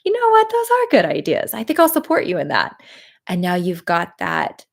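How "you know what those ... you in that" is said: high, loud, cheery voice of the subconscious; subconscious brain talking. Acted. Coach voicing the listener's subconscious, high and loud and cheery. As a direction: play the inner brain giving its blessing. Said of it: "and it's saying".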